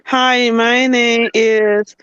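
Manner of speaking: lightly mimicked robot voice, slow; robotic. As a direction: imitate her stiff, drawn-out robotic introduction. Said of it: "like, robotic".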